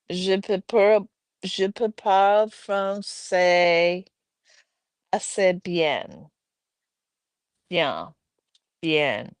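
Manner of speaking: halting French with a Spanish accent. Real, not acted. Streamer attempting French read from the chat, Spanish-accented French. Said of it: "I have a Spanish accent when I read things".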